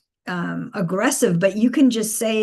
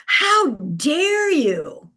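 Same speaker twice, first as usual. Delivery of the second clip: slow, drawn-out how dare you; imitating an offended villain, slowly; a hint of outraged contempt; mock indignant; 5 semitones higher, much slower than usual. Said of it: "like, pissed off".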